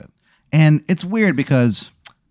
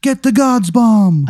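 figure's command; 10 semitones higher, 5 dB louder, slower than usual. Acted.

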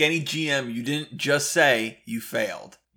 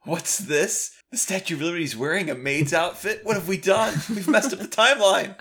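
higher-pitched, hammed-up dismay; building mock alarm, rising in pitch; mock horrified discovery; 5 semitones higher than usual. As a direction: play the adventurers realizing their mistake. Acts out players' horrified discovery.

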